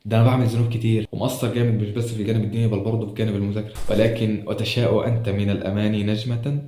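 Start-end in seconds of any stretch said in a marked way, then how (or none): 4.5-6.6 slow, measured verse delivery; poetic recitation. Acted. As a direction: recite it slowly like a line of poetry.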